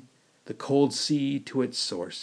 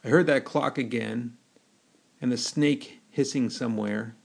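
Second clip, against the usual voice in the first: ordinary delivery, nothing marked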